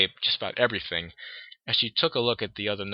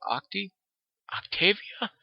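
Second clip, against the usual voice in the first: surprised question; 10 semitones higher, 3 dB quieter than usual. Acted. Sweetie puzzled by nickname.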